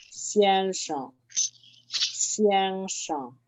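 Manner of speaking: XIANSHENG held level on XIAN, SHENG short and falling; second syllable toneless. Shown as a demonstration. Teacher showing a neutral tone, XIANSHENG with a short unstressed ending. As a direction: sustain XIAN, drop SHENG lightly. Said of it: "cuando no tiene tono".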